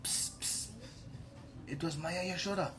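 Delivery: very soft, secretive undertone; hushed tip-off. Acted. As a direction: pass it on furtively, barely audible. Someone secretly tips off Balram.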